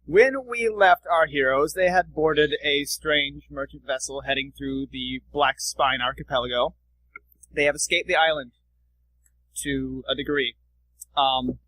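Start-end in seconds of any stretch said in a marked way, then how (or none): 0.1-10.6 story narration. Acted. GM scene setting.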